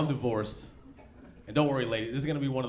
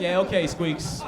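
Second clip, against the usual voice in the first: higher, slow mocking drawl; teasing the squeaky-voiced son; mocking dad; 8 semitones higher, 7 dB louder, slower than usual. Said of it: "I'm just like".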